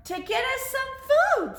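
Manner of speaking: put-on high little baby-owl voice; Percy. Baby owl guessing about mother, high-pitched voice. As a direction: pipe up high like an owlet. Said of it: "said Percy".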